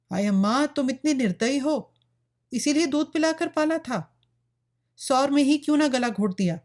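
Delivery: high-pitched, lamenting protest; anguished reproach. A narrator's reading. Daughter laments her mother's cruelty, anguished reproach.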